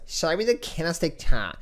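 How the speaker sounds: lightly voiced demanding viewer; mock a picky viewer begging for candles; a hint of a spoiled whine; whiny viewer. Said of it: "some of you guys say".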